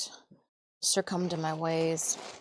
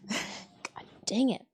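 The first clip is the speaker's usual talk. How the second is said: whispered; 3 semitones higher, 6 dB quieter, slower than usual. Real, not acted. Muttering frustration while packing.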